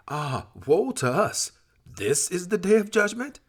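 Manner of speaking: a lament that climbs in panic; anguished cry of woe. Acted. The damned cry out on Judgment Day.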